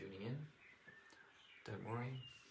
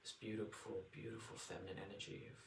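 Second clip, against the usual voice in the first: guided meditation. Acted. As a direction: ease them into relaxation.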